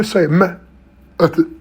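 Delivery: method dragged out slowly; very slow drawn-out speech. Shown as a demonstration. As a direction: stretch out say method. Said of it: "if I speak like that".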